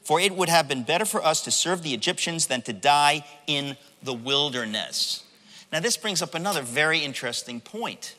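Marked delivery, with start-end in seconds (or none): 0.0-5.2 earnest scripture complaint, emphatic then slowing; serious, measured remonstrance; getting serious. Retold or imitated. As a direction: voice a grave accusation as read aloud. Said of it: "then they get serious".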